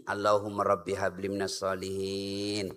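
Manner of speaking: put-on low, soft murmured prayer over a child. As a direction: pray it gently under your breath. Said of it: "disuapi makanan... ayo nak".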